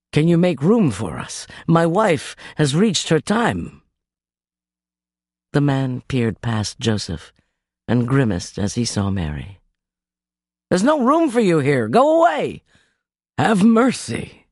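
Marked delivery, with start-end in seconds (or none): 0.1-3.8 Joseph pleading. Acted. Joseph begging innkeeper for room. 10.7-12.6 higher, louder innkeeper turning them away; a gruff innkeeper shutting the door on them; harsh innkeeper. Acted. Innkeeper voiced in story. 13.4-14.5 pleading Joseph. Acted.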